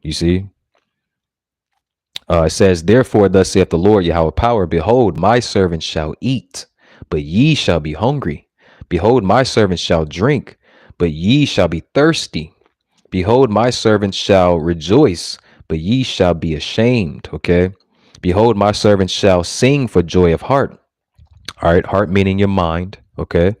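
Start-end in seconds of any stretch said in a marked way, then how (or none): 2.8-17.3 slow, weighty King James reading; measured preacher's scripture reading; solemn scripture reading. Acted. Reading scripture aloud in sermon. 18.2-20.8 slow, weighty King James reading; measured preacher's scripture reading; solemn scripture reading. Acted. Reading scripture aloud in sermon.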